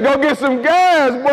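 a hint of a bossy wife. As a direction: order him off like his wife. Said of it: "She said".

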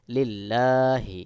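লিল্লাহি very slow, with a light thin l and long aa; thin lam. Shown as a demonstration. Teacher models Quran reading, slow thin-l লিল্লাহি. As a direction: stretch লিল্লাহি, keeping the double l light. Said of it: "বারিক বা পাতলা করে পড়ব".

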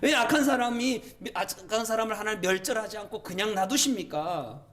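high, indignant challenge; aggrieved acted questioning; arguing with God. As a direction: demand to know why, as the prophet. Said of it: "그렇게 막 따지듯이 기도해요".

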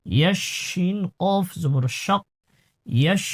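ইয়াশ with a clean, full sh sound; clear shin. Shown as a demonstration. Teacher showing the student a clean shin. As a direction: make the শ of ইয়াশ crisp. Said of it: "শিনের উচ্চারণ সুন্দর করতে হবে".

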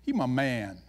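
low, laid-back God bragging on his man; God talking casually. Retold or imitated. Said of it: "and God goes".

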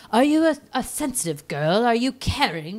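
put-on high probing old woman voice; lightly voiced prying old woman; old lady quizzing. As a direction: quiz her like a nosy old lady. Old woman questions girl.

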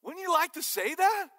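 loud, high-pitched repeat of the question; emphatic question. Real, not acted. Preacher presses the congregation for an answer, loud and emphatic.

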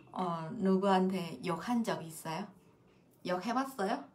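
soft, low-key 욕해봤어요 asked almost to herself; a soft aside asking 욕해봤어요; quiet question. Shown as a demonstration. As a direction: murmur 욕해봤어요 under the breath. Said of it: "혹시 여러분 욕해봤어요?".

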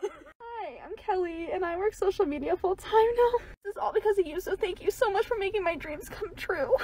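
soft, high, close to tears; tearfully composing herself. Real, not acted. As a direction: hold back tears and say it softly. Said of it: "let me compose myself".

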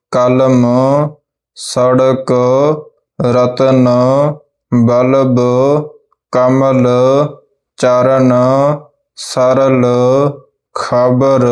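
each three-letter word spoken alone and distinctly; ਹਰ ਸ਼ਬਦ ਸਾਫ਼ ਤੇ ਵੱਖਰਾ ਬੋਲੋ; careful word drill. Shown as a demonstration. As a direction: say ਬਦਲ and ਮਟਰ cleanly, pausing after each. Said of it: "ਉਹਨਾਂ ਦਾ ਉਚਾਰਨ ਇਸ ਤਰ੍ਹਾਂ ਕਰਨਾ ਹੈ".

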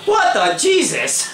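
high, shocked cry breaking into a laugh; startled outburst. Real, not acted. Gamer suddenly killed, startled cry into a laugh. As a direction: caught completely off guard.

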